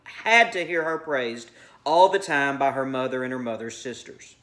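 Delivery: measured read-aloud of a short story; narrating fiction to a class; story narration. A narrator's reading.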